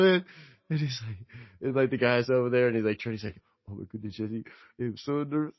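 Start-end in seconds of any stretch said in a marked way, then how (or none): 3.7-5.5 put-on soft, nervous aside in a Jamaican accent; retold worry with a Jamaican lilt. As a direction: imitate a nervous Jamaican friend. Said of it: "he said it in the Jamaican voice".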